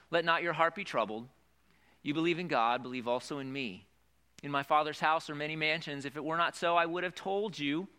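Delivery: steady, lifted Bible reading voice; formal scripture read. Acted. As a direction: read it out to the congregation. Reads scripture aloud.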